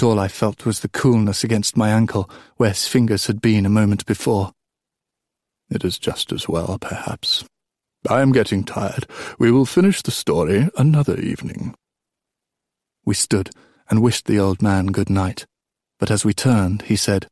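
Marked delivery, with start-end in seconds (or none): 5.7-11.7 put-on old king winding down. Old king putting off the story, winding down.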